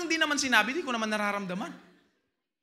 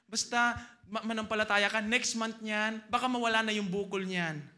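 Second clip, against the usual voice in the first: mock soothing. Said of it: "Sasabihin niya".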